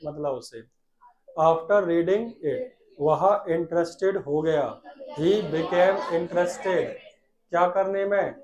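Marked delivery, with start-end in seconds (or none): 1.4-2.7 slow, drawn-out words; slow dictation. Shown as a demonstration. Teacher dictating slowly to the class. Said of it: "साथ में बोला करो बेटा". 5.2-6.9 slow, drawn-out words; slow dictation. Shown as a demonstration. Teacher dictating slowly to the class. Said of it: "साथ में बोला करो बेटा".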